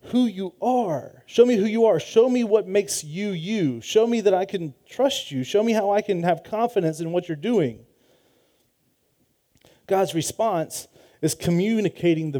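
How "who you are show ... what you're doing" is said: ache for God to reveal himself; Moses pleading. Retold or imitated. Moses pleading with God to show who he is, high and earnest. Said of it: "he's saying".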